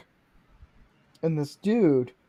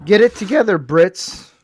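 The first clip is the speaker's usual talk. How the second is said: mock scolding; 3 semitones higher, 6 dB louder than usual. Real, not acted. Scolds Lego over bad instructions.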